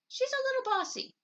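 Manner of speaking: high confiding whisper to Mama; whispered aside. A narrator's reading. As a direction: share the secret under your breath. Confiding about new friend.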